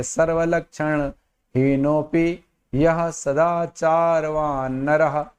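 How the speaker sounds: slow, measured recitation of the verse; shloka recitation. Shown as a demonstration. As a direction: chant it slowly as a model reading. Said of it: "ऐसे पढ़ेंगे". (धीमा, स्पष्ट श्लोक पाठ)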